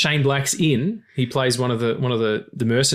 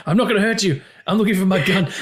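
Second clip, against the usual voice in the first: laughing quote; 7 semitones higher, faster than usual. Retold or imitated. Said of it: "That's right".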